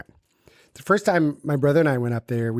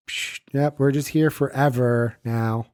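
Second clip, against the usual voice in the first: resigned sigh; slower than usual. Retold or imitated. Acted resigned prisoner.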